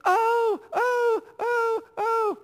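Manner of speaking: put-on high squealing child's oh oh oh; excited little girl. Daughter opening Christmas presents, squealing high with delight. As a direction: squeal like a thrilled kid at presents. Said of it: "she's going".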